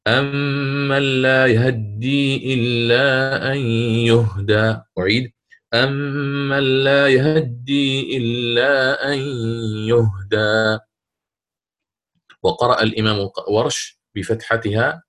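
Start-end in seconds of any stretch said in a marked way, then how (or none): 0.1-10.8 slow chanted يهدي with the fatha on the ha snatched; measured Quran chant of يهدي with a half-voiced ha; Qalun recitation. Shown as a demonstration. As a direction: chant يهدي slowly, barely touching the ha's vowel. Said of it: "سيقرأ هكذا".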